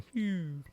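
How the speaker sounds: high "phew" of a dropping meter; imitated meter noise. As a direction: make a little high meter sound. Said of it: "my meter started going".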